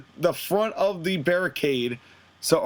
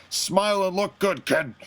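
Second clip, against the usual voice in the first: Vince impersonation. Retold or imitated. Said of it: "That was terrible Vince impersonation".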